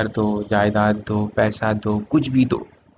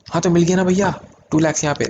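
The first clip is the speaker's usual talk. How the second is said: higher-pitched student jumping in; eager student; 6 semitones higher, much faster than usual. Acted. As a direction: play a student who thinks it's solved.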